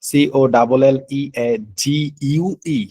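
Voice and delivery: slow, letter by letter spelling; careful dictation pace. Shown as a demonstration. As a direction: spell it out slowly for the class. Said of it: "তাহলে একটু খেয়াল রাখতে হবে".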